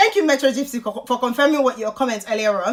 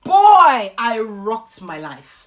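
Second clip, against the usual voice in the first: proud exclaim; 2 semitones lower, 5 dB louder, much slower than usual. Pretend. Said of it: "look back when I'm seventy-five and say".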